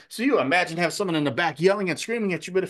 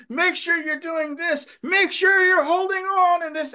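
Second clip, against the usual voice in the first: imitated drill-style yelling, pitched very high and loud; screaming instructor; 14 semitones higher, 5 dB louder than usual. Flight instructor to his student pilot in the cockpit, screamed orders. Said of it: "all he does is yells and screams".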